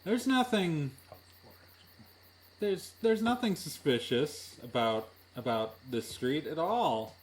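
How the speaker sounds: high, over-innocent mock reassurance. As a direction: pretend all is well, pitch lifting. GM feigns reassurance after secret roll.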